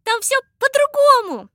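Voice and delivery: high loud calling out; calling after. A narrator's reading. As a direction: shout after someone flying off. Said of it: "сказала вдогонку Анечка".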